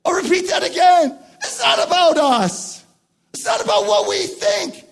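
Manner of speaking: high-pitched, insistent preacher's proclamation; impassioned preaching. Acted. Preacher telling congregation it's about God, impassioned. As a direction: drive each phrase home with fervour. Preacher drives home the point.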